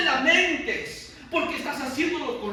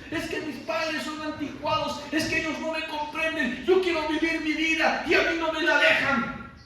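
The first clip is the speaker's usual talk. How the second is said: put-on rebellious child; 3 semitones higher than usual. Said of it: "y van a decir".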